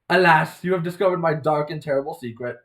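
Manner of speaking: hammed-up tragic reveal; mock-dramatic confession. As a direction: confess it like a stage melodrama. Acted mock confession to another character.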